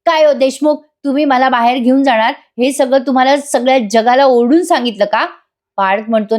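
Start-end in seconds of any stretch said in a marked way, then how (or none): 0.1-5.2 mild mock yell, no real volume; irritated calling out. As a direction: retell an annoyed protest from behind a door. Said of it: "Kavya चिडते बरं का आणि म-, आतून ओरडून म्हणते".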